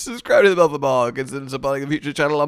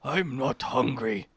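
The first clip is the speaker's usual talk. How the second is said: Scooby-Doo impression; 3 semitones lower, 8 dB quieter, slower than usual. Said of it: "just Scooby and Shaggy just like".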